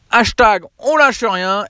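high, slow, drawn-out slogan call; upbeat catchphrase. Acted. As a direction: sell the motto with a big lift. Closing rallying catchphrase to listeners.

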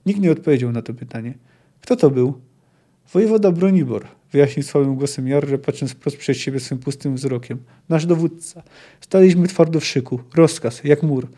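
measured reading with acted dialogue; story narration. A narrator's reading. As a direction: read the field-hospital scene aloud, voicing both speakers. Czyta powieść na głos. (narracja powieści z odgrywanymi dialogami)

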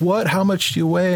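imitating startled farmers, pitched well up; mock disbelief on a high, quick question; incredulous question. Farmers asking the pilot his weight, incredulous.

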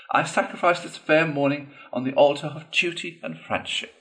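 lightly voiced Toad hamming up noble duty; a touch of theatrical self-sacrifice; Toad's mock sacrifice.

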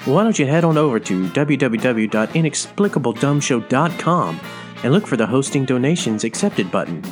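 ordinary delivery

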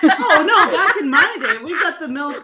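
laughing. Pretend. Joking old-timer bit, laughing.

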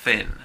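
"thin" with the tongue between the teeth, voiceless th; th sound demo. Shown as a demonstration. Teacher isolates the th in thin for students. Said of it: "El sonido es".

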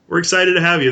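lightly put-on Australian host; Australian accent. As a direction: keep up a mild Aussie accent. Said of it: "Just in the beginning".

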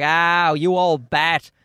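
imitated exasperated comeback; mock scolding. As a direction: dismiss a know-it-all old relative, voice lifted. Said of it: "And we're like".

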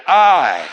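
"I" punched loud and held alone; loud, isolated "I"; emphatic I. Shown as a demonstration. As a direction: hit "I" hard for the congregation to repeat. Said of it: "say it".

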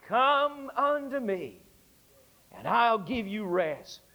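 slow, gentle quotation; solemn scripture. Acted. Preacher quoting Jesus's invitation, slow and gentle.

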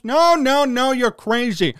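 loud, scoffing no no no; mocking dismissal. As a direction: brush them off as crazy. Voicing fans mocking the doubters.

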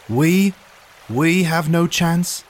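high, loud, slow disbelieving echo; incredulous outrage. Acted. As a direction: throw the word back in disbelief. Indignant echo of despair.

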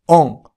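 オン said at the back of the throat, mouth open; throaty French nasal オン; muffled nasal vowel. Shown as a demonstration. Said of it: "喉の奥でくぐもった声で".

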